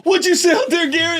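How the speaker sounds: mother shouting at her son; stern mom shout. Retold or imitated. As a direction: call him out sharply. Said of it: "And my mom goes".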